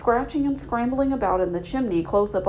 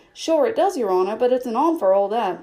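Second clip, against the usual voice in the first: servant reply; 4 dB louder than usual. Acted. Pat answering master.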